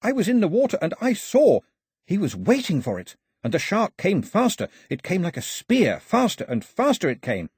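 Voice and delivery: high, breathless tale to the crowd; dramatic storytelling. A narrator's reading. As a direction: spin a wild tale, wide-eyed. Pilou dramatically tells shark story.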